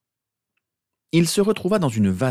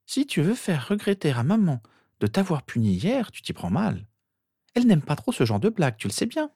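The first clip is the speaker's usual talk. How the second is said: put-on high, singsong girl's voice; scolding sister; 9 semitones higher than usual. A narrator's reading. Sister telling off her brother for a prank, scolding. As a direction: lecture him in a high little-sister voice.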